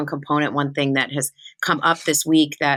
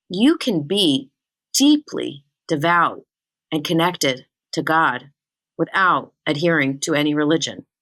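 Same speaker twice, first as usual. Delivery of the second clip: slow emphatic. Shown as a demonstration. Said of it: "Let me say that again".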